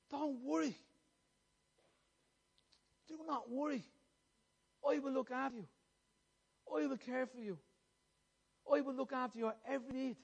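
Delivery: measured, gentle reassurance; pleading. Retold or imitated. Preacher voices Christ pleading with this congregation, gently reassuring. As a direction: reassure them in short, spaced phrases. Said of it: "He's pleading with you".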